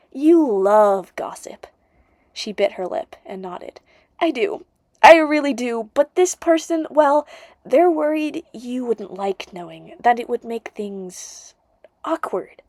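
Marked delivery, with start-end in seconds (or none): 0.1-1.7 slow, coaxing whisper; pleading whisper. Acted. Narrator coaxing Nissa for gossip, slow pleading whisper. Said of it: "I pleaded". 4.2-12.6 lightly voiced friend, a bit higher and pushing; Nissa, urgent friend. Friend urging the narrator about hearts on the line, higher and insistent.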